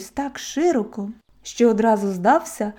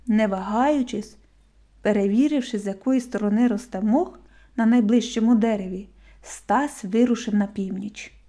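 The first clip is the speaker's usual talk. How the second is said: ordinary delivery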